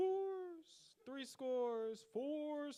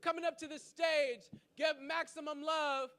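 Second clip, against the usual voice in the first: louder, higher call for applause; hype shout; 4 semitones higher, 6 dB louder than usual. Real, not acted. Host introducing Fetty to the crowd, shouting. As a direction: bring the poet up with a big shout. Host bringing up next poet.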